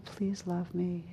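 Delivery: almost silent, barely breathed; woman grown very quiet after sobbing, breathing her plea. Retold or imitated. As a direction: let it fall to a near-silent hush. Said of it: "she got very quiet".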